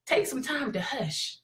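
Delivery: soft and slow, nearly a hush. Acted. Telling live viewers to hush, soft and slow. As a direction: ease the volume right down to model silence. Urging listeners to be silent.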